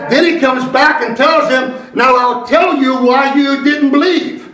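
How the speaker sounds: slow, deliberate pulpit delivery; measured preacher cadence with weighty stresses; emphatic preaching. Real, not acted. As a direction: drive each phrase home to the congregation. Preaches to the congregation.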